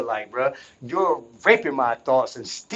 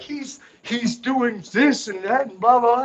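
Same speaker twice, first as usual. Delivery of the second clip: mock announcer; 9 semitones higher than usual. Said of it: "And it's like".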